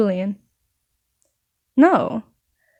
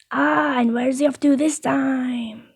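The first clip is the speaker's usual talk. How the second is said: lightly voiced chatty baker, unhurried; a hint of a nosy baker; baker character; 3 semitones higher than usual. Baker asks where Asra is travelling, lightly put-on voice.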